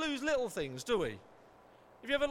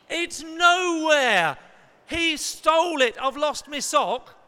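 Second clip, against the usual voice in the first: put-on whiny child; 5 semitones higher, 12 dB louder, slower than usual. Child whining about sock.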